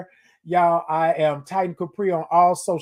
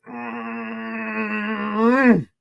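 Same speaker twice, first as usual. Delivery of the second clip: hug hum; 5 semitones higher than usual. Pretend. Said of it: "And listen to it".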